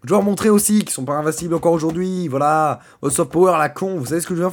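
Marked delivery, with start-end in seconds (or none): 0.0-0.8 mock menace. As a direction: announce revenge like a cartoon villain. Mock villain threat against Crunchyroll.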